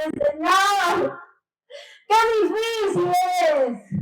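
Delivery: re-enacted tearful cry to God, pitch lifting mid-plea. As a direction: plead as if crying, drawing out the words. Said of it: "a llorar nuevamente".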